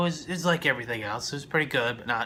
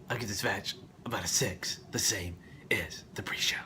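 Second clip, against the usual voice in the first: whisper; 3 semitones lower, 5 dB quieter than usual. Acted. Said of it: "whispered rating aside".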